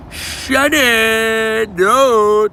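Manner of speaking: high, loud shiny cheer; excited shout. Real, not acted. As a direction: cry out at the shiny. Shiny Pokémon appears.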